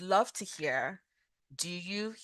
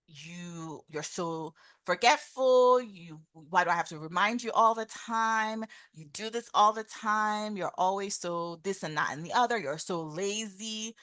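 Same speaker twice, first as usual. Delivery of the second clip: blaming. Shown as a demonstration. Wife nags her forgetful husband about garbage, mock blaming. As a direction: reproach with mild exasperation, stretching the faults. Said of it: "the blaming statement".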